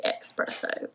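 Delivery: Espresso said "ex-PRESS-oh"; pronounced with an X. Shown as a demonstration. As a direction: say Espresso with "eks" at the start. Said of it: "but I say Espresso".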